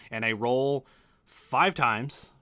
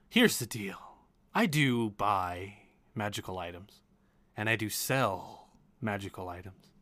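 measured merchant with lilting emphasis; magical item broker. Acted. Broker explains her deals to customers, measured. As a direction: lay out your terms, savouring key words.

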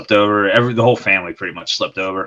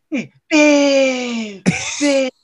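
laughing; 14 semitones higher, much slower than usual. Real, not acted. Laughing while retelling.

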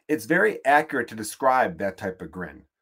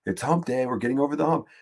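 office hump day guy; 3 semitones higher than usual. Retold or imitated. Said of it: "dude in the office that's all like".

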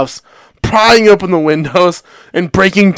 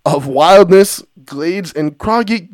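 poem reading. Acted. Reads poem-story aloud.

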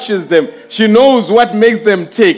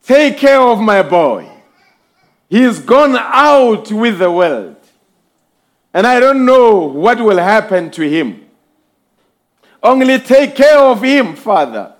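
praying mother. Retold or imitated. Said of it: "her saying in prayer".

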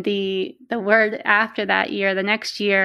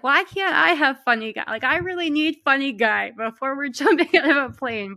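higher, pleading little complaint; playful mock whine; 5 semitones higher than usual. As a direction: whine half-joking for the funny guide. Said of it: "And I was like".

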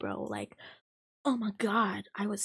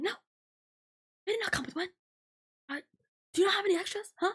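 a hint of a pushy customer; mock old lady; 12 semitones higher, 4 dB louder than usual. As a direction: drag out her demand in a high voice.

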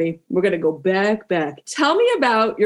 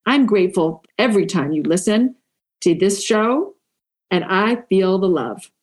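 measured, deliberate podcast ad read; recorded promo read; 3 semitones lower, slower than usual. Acted. Host urging women listeners to join her programme, measured promo read. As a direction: spell out each phrase with pauses.

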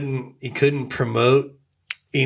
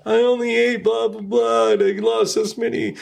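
higher, bright ad-pitch voice of a spokesman; mock Jared pitch; 9 semitones higher than usual. Friend imitating Jared in a commercial, pitched up and salesy. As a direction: sell it like a cheesy sandwich ad. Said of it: "So you have Jared going".

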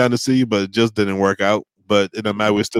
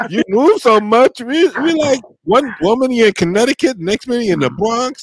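mocking schoolkid; 10 semitones higher than usual. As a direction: play the amazed schoolmate quizzing him. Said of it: "They said".

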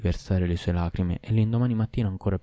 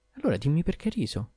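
insistent wife; 8 semitones higher than usual. A narrator's reading. Wife presses husband.

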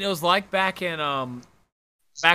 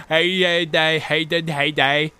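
straining with effort; 3 dB louder than usual. Pretend. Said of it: "sound like a kid struggling to speak".

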